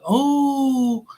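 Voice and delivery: high, drawn-out dreamy admiration; mock admiring shopper. Shopper in the mall imagined, gushing slowly and high. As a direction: gush over the mall like a carefree shopper. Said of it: "and be like".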